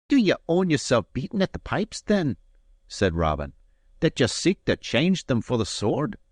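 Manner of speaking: Robin, courteous. A narrator's reading. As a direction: offer the advantage with lofty courtesy. Robin taunts Allen.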